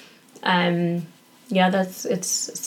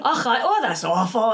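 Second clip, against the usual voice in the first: lightly imitated Scottish dismay; a hint of a horrified Scot; horrified Mark, Scottish accent; 3 semitones higher than usual. Friend hears about the vomiting child, mildly horrified Scottish accent. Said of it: "Mark was horrified".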